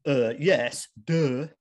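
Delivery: put-on snarky, know-it-all teenage duh; sarcastic duh voice. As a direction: roll your eyes through it. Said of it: "in that voice".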